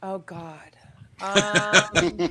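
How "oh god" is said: whispered groan. Real, not acted. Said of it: "asked about new projects".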